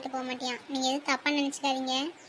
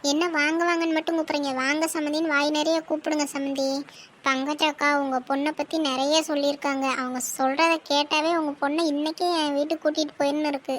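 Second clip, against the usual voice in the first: bossy mother-in-law; 2 semitones higher, 5 dB louder than usual. Acted. Groom's mother scolds the bride's family for a plain welcome, loud and bossy. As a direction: play the pushy groom's mother who wants respect.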